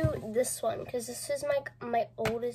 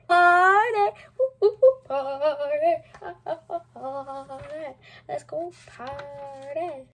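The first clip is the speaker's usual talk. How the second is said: excited; 6 dB louder than usual. Retold or imitated. Reading diary party cheer.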